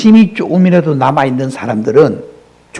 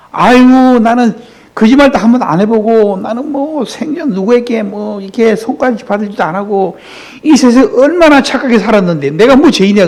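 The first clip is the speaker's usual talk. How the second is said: higher-pitched indignant sinner; mock self-righteous; 5 semitones higher than usual. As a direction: play the proud man who claims no sin. (독선적인 사람 흉내)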